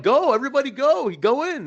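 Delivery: high, loud retold shout; urgent egging on. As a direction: herd everyone in with a high-pitched yell. Retold urging of fans into ring.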